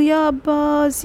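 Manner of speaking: slow, drawn calling of Abbas; first slow cry of ya Abbas; mournful call. Acted. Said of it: "ત્રણ વખત કીધું".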